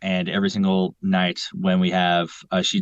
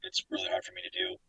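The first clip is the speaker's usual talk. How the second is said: very high, quiet lisping tiger; Tigger lisp; 11 dB quieter, faster than usual. Shown as a demonstration. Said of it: "talking with a lisp".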